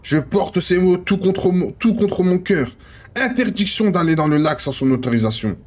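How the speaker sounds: measured manuscript reading; understated literary narrator; story narration. Acted. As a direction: read it out like a novel, pausing between names. Reads manuscript page aloud.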